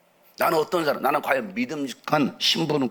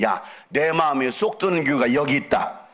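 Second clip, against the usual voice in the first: God's booming praise; 4 semitones higher, 5 dB louder than usual. Acted. God praising the church.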